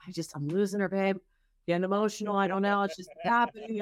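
high, wobbly imitation of her emotional husband; husband fretting over his daughter, mock teary voice. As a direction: play up his tearful voice, lightly. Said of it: "And he's like".

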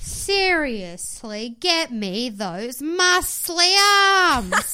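slow, stretched, mock-dreamy; drawn-out longing. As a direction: savour each word, teasing desire. Joking longing for Tate.

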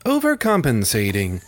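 stiff robotic read. Pretend. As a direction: read it like a machine. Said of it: "read it in a robotic voice".

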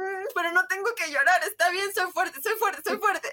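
mock lump in the throat, forcing out soy fuerte; holding back tears. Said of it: "el nudo aquí".

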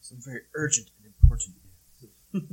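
loud mock news announcer; anchorman voice. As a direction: announce it with gravity. Anchorman quote parody.

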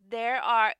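measured, hushed Bible reading; scripture reading. Acted. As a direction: read it like holy scripture. Reads Proverbs aloud.

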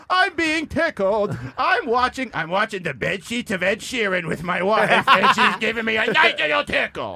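being tickled. Pretend. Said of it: "is someone tickling you".

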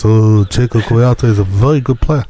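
slow impression of the manager Roy; lightly voiced Roy impression. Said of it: "in my Roy voice".

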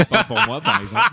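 voix aiguë qui rit; en riant. Real, not acted. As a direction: plaisanter en riant, haut perché. Plaisante au milieu des rires. (rire dans la voix, très aigu)

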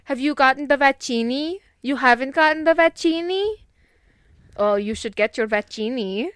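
vaccini said like fettuccine, vuh-CHEE-nee; playful vaccini. Shown as a demonstration. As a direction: tease with vaccini, Italian-style ending. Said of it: "Like the way we pronounce fettuccine".

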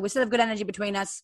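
fast, quick attempt at a South African accent. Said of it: "I'm trying to do his accent".

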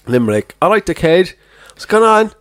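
lightly put-on Limerick accent. Friend trying Limerick for the lads, mock Limerick accent. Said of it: "why don't you do Limerick".

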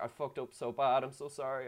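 mild mock-upset apology; retold tearful apology. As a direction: imitate a crying apology, lightly, without sobs. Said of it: "to the point where she started crying".

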